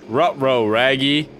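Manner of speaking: Scooby-Doo impression. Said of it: "Scooby-Doo is a Dark Souls boss".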